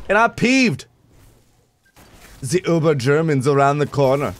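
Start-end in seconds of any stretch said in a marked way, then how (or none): 2.4-4.3 put-on German accent. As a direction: stretch it out in stereotypical German. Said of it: "I could do a German accent".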